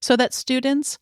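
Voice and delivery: measured, carefully phrased bio read; formal guest introduction. Acted. Host introducing a guest to podcast listeners, formal read.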